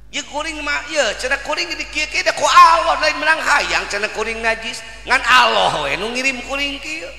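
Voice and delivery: high, loud, pleading outburst from the wronged dog; indignant dog voice. Acted. The scorned dog protesting to Syekh Junaidi, high and loud.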